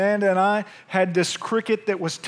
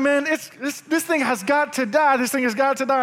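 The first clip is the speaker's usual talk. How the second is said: determined; 5 semitones higher than usual. Retold or imitated. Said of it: "I'm like".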